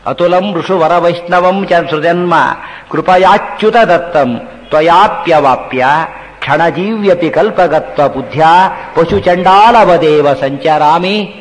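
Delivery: slow, measured shloka with lengthened endings; Sanskrit verse recitation. Acted. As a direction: recite the shloka slowly, line by line.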